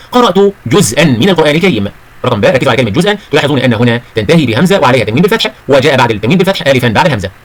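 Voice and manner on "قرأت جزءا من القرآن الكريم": slow, careful example sentence; model pronunciation. Shown as a demonstration. Teacher models coloured words for pupils, slow careful reading. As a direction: read it slowly, sounding every ending. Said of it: "انطق الكلمات الملونة الآتية".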